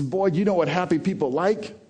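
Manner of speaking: high-pitched grandpa posing a riddle; imitated grandfather. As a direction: play grandpa testing the boy. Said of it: "He says".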